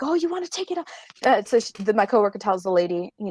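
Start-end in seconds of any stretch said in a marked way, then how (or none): 0.0-0.9 mock taunt. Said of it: "she's like".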